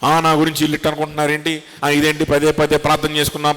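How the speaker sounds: a lightly voiced complaining member, fast; hint of a sulky member; mock grumbler. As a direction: mimic the whining churchgoer. Mocking a grumbling church member.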